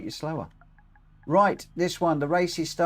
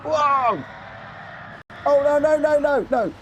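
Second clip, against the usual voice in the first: panicked shout; 11 semitones higher, 4 dB louder than usual. Real, not acted. Crashes into barrier.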